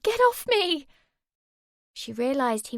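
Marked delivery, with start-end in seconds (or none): 0.0-0.9 high, loud struggling yell; high loud panicked shout. A narrator's reading. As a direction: fight him off with your voice. Girl struggling against attacker.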